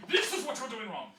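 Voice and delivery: high, loud mock telling-off; mock accusing shout. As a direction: blast it out as an over-the-top scolding. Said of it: "If it feels like I'm going".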